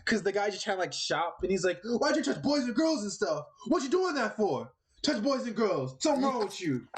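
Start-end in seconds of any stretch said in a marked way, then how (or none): 1.8-6.9 higher, slower mock interrogation; mock accusing vigilante. Imitating a vigilante grilling a shopper, higher and slow. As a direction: drag out the accusation, hammed-up.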